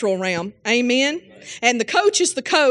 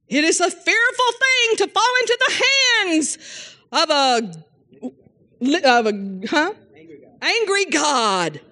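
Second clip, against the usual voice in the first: mock hellfire preacher; 5 semitones higher than usual.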